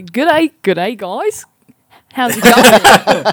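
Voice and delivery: put-on light South African accent on the greeting; a brief slip into a South African accent. South African accent greeting the co-hosts over a bad line. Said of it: "I went South African then".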